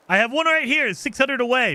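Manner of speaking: high, indignant protest; exasperated complaint. Real, not acted. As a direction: raise the pitch in real frustration at the useless tool. Complains about the target sweeper.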